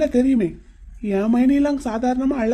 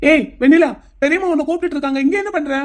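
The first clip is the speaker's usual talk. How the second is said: raised, high-pitched call; 4 semitones higher than usual. Acted. Man fetching the girl for her aunt, calling out.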